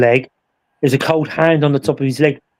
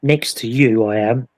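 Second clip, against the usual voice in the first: eerie ghost voice; 4 semitones lower than usual. Retold or imitated. Spirit box voice retold.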